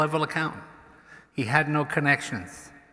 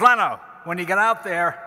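slurring tipsy voice, higher, dragged out slow; drunk secretary; 5 semitones higher, 6 dB louder than usual. Retold or imitated. Drunk secretary urging the comedian, slow sloppy goading. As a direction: lean in like a drunk pal egging him on. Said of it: "And he goes".

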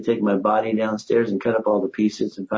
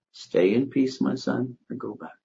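Jesus's gentle voice; 5 dB quieter than usual. Retold or imitated. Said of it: "this voice, which was Jesus's voice".

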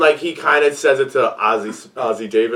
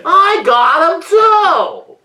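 squeaky voice; 5 dB louder, much slower than usual. Retold or imitated. Mock high voice.

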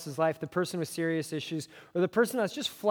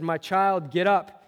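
put-on raised, louder call to the girl; 6 dB louder, slower than usual. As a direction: call her up with authority, not a scream. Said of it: "said in a loud voice".

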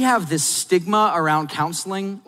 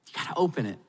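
soft repeat; 3 semitones lower, 7 dB quieter, faster than usual. Shown as a demonstration. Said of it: "repeated softly".

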